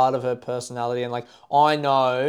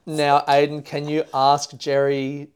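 imitated Irish girlfriend; slower than usual. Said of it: "and she said".

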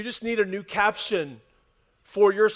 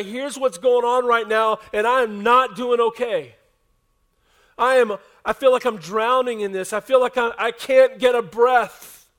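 earnest plea; 3 semitones higher, 6 dB louder than usual. Retold or imitated. Person confessing they're drowning.

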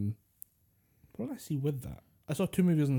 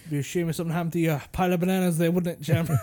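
fast, smiling mob threat; lightly voiced gangster shakedown; smiling menacing loan shark; 4 semitones higher, 3 dB louder, faster than usual. Voicing gangster King Louie threatening.

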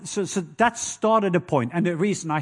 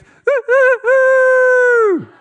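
1 eerie howling hoot; 8 dB louder, much slower than usual. Retold or imitated. Imitating night creature hoots.

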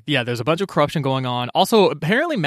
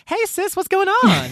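much higher, breezy casual hello; lackadaisical greeting. Retold or imitated. Erlang turning up at the dungeon window, breezy and much higher. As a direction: saunter in like nothing is wrong. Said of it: "weirdly lackadaisical about the whole thing".

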